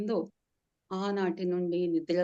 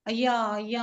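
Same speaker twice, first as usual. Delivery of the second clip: wailing; 2 semitones higher, 4 dB louder than usual. Acted. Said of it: "అని ఏడుస్తూ".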